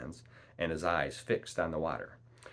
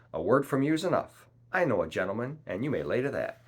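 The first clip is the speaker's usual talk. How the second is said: raised, higher cheerful voice easing down; cheery shout; 5 semitones higher, 5 dB louder than usual. A narrator's reading. Long John trusts the captain's word, cheery shout. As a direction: call back in hearty agreement. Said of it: "shouted Long John cheerily".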